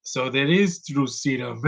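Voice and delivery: slow, put-on character voice; drawn-out deadpan mock line; lightly voiced side character; imitating Indian dude. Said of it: "the Indian dude is like".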